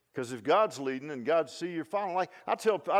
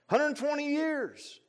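drawn-out emphasis; 9 semitones higher, much slower than usual. Real, not acted. Stretches the number out.

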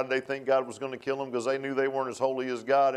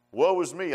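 "Woe is me" raised in pitch with emphasis; emphatic cry; 5 semitones higher, 4 dB louder than usual. Retold or imitated. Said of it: "you gotta read that emphatically".

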